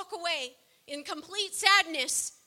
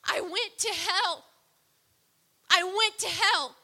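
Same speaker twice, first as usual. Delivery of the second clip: retold scream; 2 semitones higher, 4 dB louder, slower than usual. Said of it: "he's screaming".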